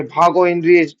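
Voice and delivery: a loud, high cry to run; urgent shout. Acted. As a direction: yell at him to flee now. Ally shouts warning to flee. (ज़ोर से चिल्लाकर भागने को कहना)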